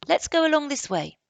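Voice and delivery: put-on high, loud boyish suggestion; Barney's voice. Barney urges his friend on, high and loud. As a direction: voice Barney leading the way. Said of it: "said Barney".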